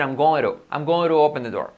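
GOING TO linked as "goin-ru"; cool going to. Shown as a demonstration. Teacher recommending it to students, linked GOING TO. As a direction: tap the T in GOING TO. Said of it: "suena más cool decir".

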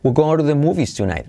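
"We're going to" melted into "we gonna"; reduced fast form. Shown as a demonstration. Teacher showing how natives blur the sentence. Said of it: "omitimos el verbo".

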